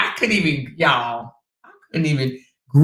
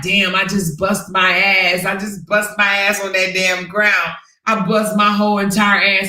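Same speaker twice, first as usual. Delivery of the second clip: lightly hammed-up imitation of her own grumbling; mock grunting complaint; 3 semitones higher than usual. Wife retelling husband mimicking her fall, mock grunting complaint. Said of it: "you around here grunting".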